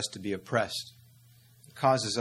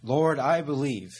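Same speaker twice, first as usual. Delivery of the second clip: raised, pleading cry to the Lord; crying out to God; 3 semitones higher, 4 dB louder than usual. Acted. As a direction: call out Lord, higher and louder. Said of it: "we cry out".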